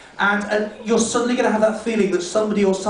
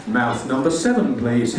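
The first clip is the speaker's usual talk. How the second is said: queue attendant calling; 8 semitones lower, slower than usual. Acted. Queue caller.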